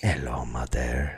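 slow, low, soft phone voice; muffled tones. Acted. Impostor greeting his supposed mother by phone, in muffled tones. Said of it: "muffled tones".

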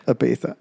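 "Ibiza" with th for z; lisp attempt. Shown as a demonstration. Copying the Spanish way, lisped "Ibiza". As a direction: try a light th in "Ibiza". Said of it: "It's hard to do".

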